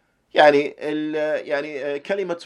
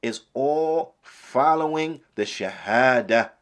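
slow emphasis; slower than usual. Shown as a demonstration. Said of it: "is what?".

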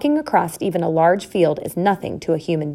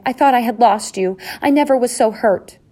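high outpouring of relief; emotional relief; 5 semitones higher, 4 dB louder than usual. A narrator's reading. Wife thought husband was lost, relieved. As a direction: let the relief pour out.

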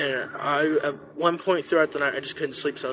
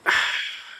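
exasperated sigh. Retold or imitated. Acted reaction to horse turning calm.

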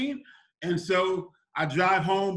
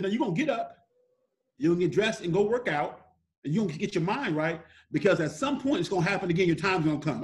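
measured imitation of mom's instructions; firm mom. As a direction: lay it down as mom, without raising your voice. Mom's first instruction, retold.

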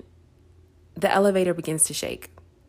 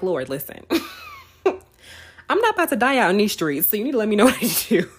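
a bit higher and louder, exasperated and half laughing; fed up, telling God off with a laugh; mock angry yell at God; 4 semitones higher, 3 dB louder than usual. Stuck in a shaking elevator, mock yelling at God. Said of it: "you yell back".

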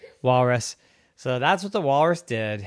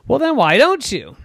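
high walrus voice; 13 semitones higher, 8 dB louder than usual. Acted. Walrus asks.

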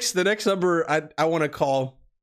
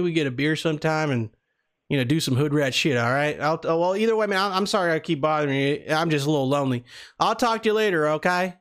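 put-on Southern accent. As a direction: play a friendly Southern country guy. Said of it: "do the same Southern accent".

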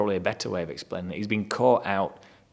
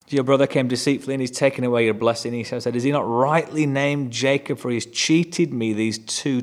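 raised, fast and pained as Esau; emotional outburst; 3 semitones higher, 4 dB louder than usual. Retold or imitated. Esau reading his father's words, rising in anguish. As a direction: let the hurt spill over. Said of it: "Now his emotions are getting the better of him".

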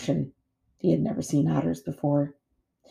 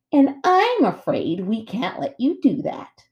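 mock-regretful threat; 6 semitones higher, slower than usual. A narrator's reading. Bear blocks robot's path.

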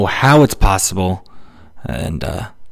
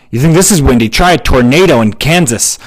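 loud, scoffing retort; mock bragging one-upper; 3 semitones higher, 7 dB louder than usual. Stranger topping a remark about windy weather, mock scornful. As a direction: play a pushy one-upper, louder throughout.

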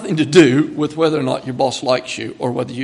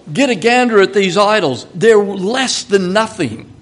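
emphatic; 4 semitones higher, 5 dB louder than usual. Acted. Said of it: "It's that emphatic".

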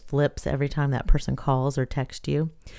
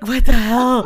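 laughing disbelief; 7 semitones higher, 6 dB louder, slower than usual. Retold or imitated. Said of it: "I was like".

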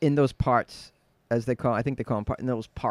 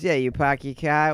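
lazy dropped-r Boston accent; Boston accent, less bite than New York; 3 dB louder than usual. Shown as a demonstration. Guest giving the host the Boston version, Boston accent. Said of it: "the Boston is".

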